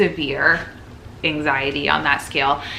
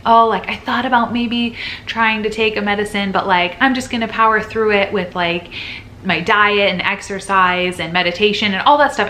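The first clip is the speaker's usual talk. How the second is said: mocking influencer voice; 4 semitones higher, 3 dB louder than usual. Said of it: "content surrounding this is kind of like".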